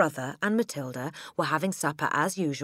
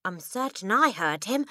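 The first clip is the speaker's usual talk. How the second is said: moderately raised, urgent insistence; excited cry; 5 semitones higher, 3 dB louder than usual. Acted. Matilda backing up her mother, excited cry. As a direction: insist with higher pitch. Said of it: "Matilda cried".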